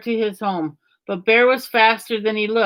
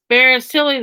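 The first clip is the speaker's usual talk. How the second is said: teasing; 4 semitones higher, 4 dB louder than usual. A narrator's reading. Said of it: "began to tease Bear".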